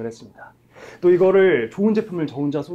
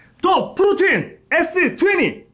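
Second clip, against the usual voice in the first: very high, tense, hyped-up delivery; 13 semitones higher, 4 dB louder than usual. Asked on a live broadcast to introduce the shake with more energy: high-energy excited product intro. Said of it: "텐션 있게".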